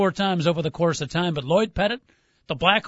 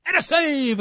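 radio announcer calling the save; hockey play-by-play call; 6 semitones higher, slower than usual. Retold or imitated. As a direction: announce the save with a beat first. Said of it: "Remember that great pause he would have?".

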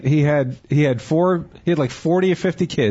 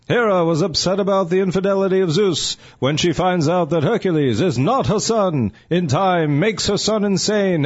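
dramatic vintage newsreel narration; old newsreel. Pretend. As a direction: read it like a 1940s newsreel announcer. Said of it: "I've got an old newsreel from ancient Greece".

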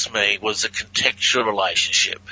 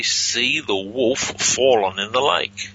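slow clear reading; slower than usual. Shown as a demonstration. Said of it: "And backwards, I say".

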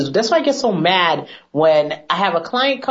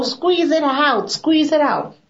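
much higher, slow mock-mom nagging; hammed-up mother insisting, squeezing each word out slowly; imitating mom; 9 semitones higher, slower than usual. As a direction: daughter imitating her mom demanding she squeeze the tube. Mom voiced again.

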